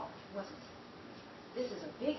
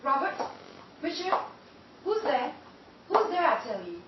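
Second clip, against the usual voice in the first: rising terror; 8 dB louder than usual. Acted. Ida hearing footsteps draw closer in the dark, terrified. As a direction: let fear climb as the steps come near.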